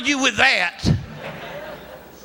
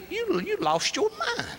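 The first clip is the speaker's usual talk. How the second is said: laughing; 8 semitones higher, 8 dB quieter than usual. Retold or imitated. Incredulous reply to pastor.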